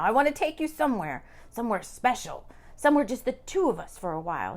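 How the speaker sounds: lightly seductive man, a little fast; a hint of a seductive lover; sexy man voice. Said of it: "sounding sexy".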